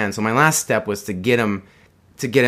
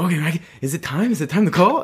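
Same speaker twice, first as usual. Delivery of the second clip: put-on higher, nervous girl's voice asking; a lightly raised mock girl, timid and eager; imitating the Japanese girl; 6 semitones higher, faster than usual. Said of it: "she's responding".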